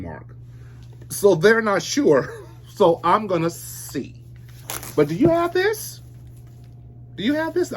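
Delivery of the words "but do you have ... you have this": excited question. Real, not acted. Asks viewers excitedly.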